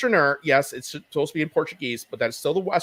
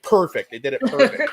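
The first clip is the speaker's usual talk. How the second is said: lightly voiced nerd, pitched up; imitated nerd; 3 semitones higher, 3 dB louder than usual. Mocking a lone nerd watching at home, imitated delight. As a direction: rise higher in mock approval. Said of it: "there's one nerd sitting at home".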